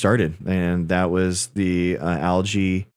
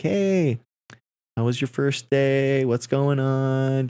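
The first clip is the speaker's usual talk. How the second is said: chirpy; 5 semitones higher, much slower than usual. Retold or imitated. Friendly text on first day.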